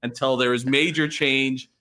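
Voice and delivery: gasping for air between phrases; breathless after a long rant; out of breath. Real, not acted. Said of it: "Sorry, I'm out of breath".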